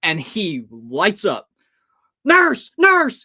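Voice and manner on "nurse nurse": high, loud, airy panicked cry for the nurse; retold scream. Hypnotized guy playing doctor, frantic high call for the nurse. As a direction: call for the nurse as if mid-emergency. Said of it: "He's screaming".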